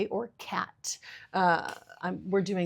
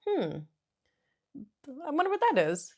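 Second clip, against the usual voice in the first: cartoony wondering; 10 semitones higher than usual. Shown as a demonstration. Mom models calm curiosity about a noise for her daughter. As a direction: wonder aloud like a playful cartoon. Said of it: "but also, like".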